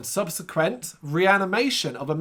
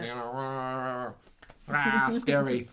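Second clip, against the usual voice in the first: mock scary; 2 semitones lower, 4 dB quieter, much slower than usual. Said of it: "mocking the scare scene".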